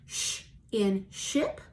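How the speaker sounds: "Sh in ship" drawn out very slowly; slow teacher phonics demo; slow phonics model. Shown as a demonstration. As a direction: model the sh sound for copying. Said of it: "Repeat after me".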